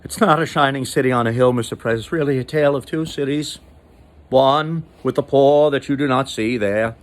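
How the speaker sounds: a lightly voiced Kennedy-style speech, addressing the president; Ted Kennedy impression. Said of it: "I'm doing Ted Kennedy".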